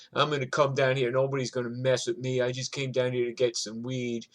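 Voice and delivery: mock tough guy. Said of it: "he was talking all this shit".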